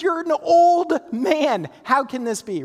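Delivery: wife bluntly mocking her husband's age, loud and high; blunt disbelief. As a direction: drag out the jab at the old man. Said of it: "she doesn't beat around the bush".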